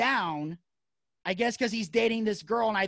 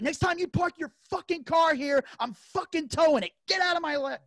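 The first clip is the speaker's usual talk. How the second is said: high-pitched, angry warning to get out; retold furious ultimatum; even more pissed dad; 7 semitones higher than usual. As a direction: imitate a father's heated threat. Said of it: "now he's even more pissed".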